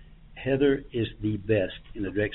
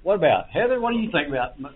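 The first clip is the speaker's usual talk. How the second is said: teary-eyed; 9 semitones higher, 10 dB louder than usual. Real, not acted. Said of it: "I got a little teary-eyed here".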